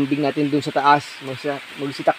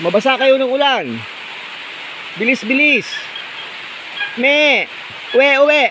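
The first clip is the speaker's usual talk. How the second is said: high calling out; 10 semitones higher than usual. Real, not acted. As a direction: shout them home through the rain. Calling goats in rain. (mataas at malakas na pagtawag)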